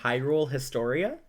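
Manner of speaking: Historia said his-TOR-ee-uh; clear pronunciation demo. Shown as a demonstration. Repeating the book title for a puzzled co-host, Historia as his-TOR-ee-uh. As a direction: say Historia with four syllables, ending ee-uh. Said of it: "How did you pronounce that?".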